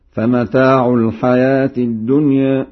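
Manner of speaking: chanted "الدنيا" ending toward e; Warsh taqlil. Shown as a demonstration. Teacher gives an example, chanting "الدنيا" with tilted ending. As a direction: tilt the final vowel of "الدنيا" slightly toward ee. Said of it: "يقلل الألفات ذات الياء".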